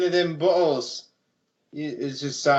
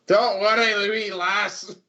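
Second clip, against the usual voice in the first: mild call of reassurance, raised pitch; 4 semitones higher, slower than usual. Acted. Hrothgar calls to a scared little girl, calling out. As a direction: call out without a full yell. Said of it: "Hrothgar yell out".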